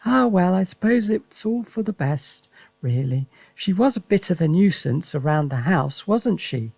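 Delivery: wife shrugging off grandma's loss; lightly voiced Missus Cranky. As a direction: sigh it off, settling down.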